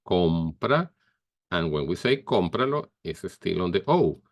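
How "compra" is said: compra with stress on the com; stress on first syllable. Shown as a demonstration. Teacher showing stress, stressed first syllable. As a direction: lean on the o in compra. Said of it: "stress tone goes on the O".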